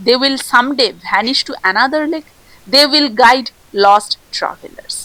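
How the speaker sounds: slow, deliberate reading of a quiz question; unhurried exam question read. Acted. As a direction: read the question out slowly for the class. Reads quiz question and options.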